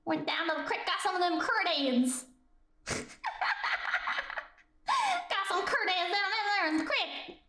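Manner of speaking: put-on hillbilly accent. Streamer improvising a creek tale for chat, hillbilly accent. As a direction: tell it like a backwoods hillbilly. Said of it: "confusing Western with hillbilly".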